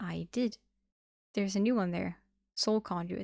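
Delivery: ordinary delivery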